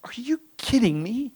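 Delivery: high, slow whispered sneer; bratty kid. Retold or imitated. Small boy sneering back at his mother, whispered. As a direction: hiss it like a bratty six-year-old. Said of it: "He says".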